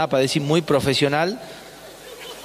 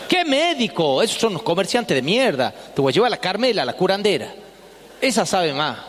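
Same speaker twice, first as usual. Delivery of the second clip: indignant mom; 3 semitones higher than usual. Retold or imitated. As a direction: scoff at doctors like a stubborn mom. Mother rejecting doctors.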